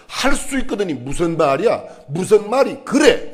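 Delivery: mock scolding. Shown as a demonstration. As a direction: play the wrong reading, Jesus as a scolding, irritated voice. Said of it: "이런 말 아니에요". ("무슨 말이 그래"를 높고 크게 꾸짖듯이)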